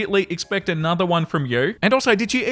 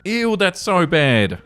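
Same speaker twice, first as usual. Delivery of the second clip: disgusted; much slower than usual. Real, not acted. Reacting to shocking story.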